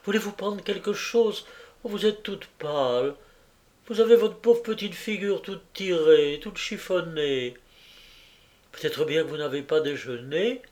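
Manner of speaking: a kindly landlady fussing with relief; fussy landlady. Acted. Landlady greeting Jacqueline home, gushing relief.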